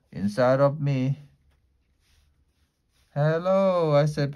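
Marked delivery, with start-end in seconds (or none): 3.1-3.9 nervous. Acted. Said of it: "Very nervous".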